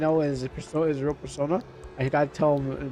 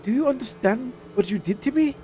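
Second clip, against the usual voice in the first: hurt anger; 6 semitones higher than usual. Acted. Confronting absent father.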